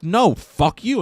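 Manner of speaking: high, indignant comeback; acted angry refusal. Diner to the man eating his fries, indignant.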